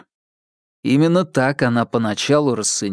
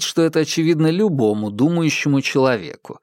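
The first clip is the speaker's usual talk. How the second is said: ordinary delivery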